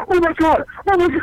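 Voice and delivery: high, loud mock shock; aghast father. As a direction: imitate a horrified dad walking in. Retells father walking in, aghast.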